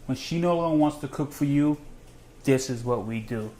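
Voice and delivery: measured slogan, phrase by phrase; deliberately slow. Shown as a demonstration. Dad signs off for his son Remington, deliberately slow. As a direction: take the sign-off slowly and deliberately. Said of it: "I'm gonna say this slow".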